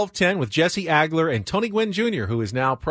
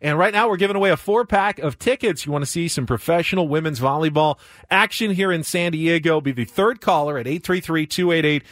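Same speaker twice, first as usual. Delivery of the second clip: upbeat on-air giveaway pitch; punchy DJ contest read; radio contest promo. Acted.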